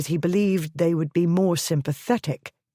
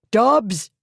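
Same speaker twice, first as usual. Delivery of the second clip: loud, higher shout calling a servant; 6 semitones higher, 4 dB louder than usual. A narrator's reading. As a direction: call the servant's name loudly. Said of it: "Missus Tolstone shouted".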